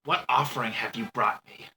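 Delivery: lightly voiced raspy woman, slow; man doing a woman's voice. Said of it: "You can do a better girl voice".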